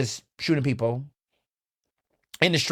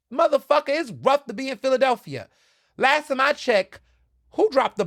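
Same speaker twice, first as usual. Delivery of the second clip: higher, hot-headed comeback; exasperated outburst; 10 semitones higher than usual. Real, not acted. Answering condescending East Coasters, an exasperated outburst. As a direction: fire back like you've had it. Angry retort about Philly racism.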